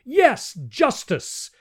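very high, loud shout; a crowd echoing the call for justice. Acted. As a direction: shout agreement like many voices. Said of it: "echoed a dozen voices".

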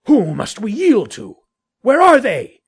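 high, loud shouted question; calling back. Acted. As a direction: demand it at a shout across the distance. Shouted parley in the dark.

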